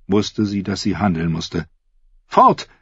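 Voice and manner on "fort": kurzer, sehr hoher Ausruf; gerufen. A narrator's reading. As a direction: ruf es als Fluchtbefehl. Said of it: "rief sie". (hoher, dringlicher Ruf)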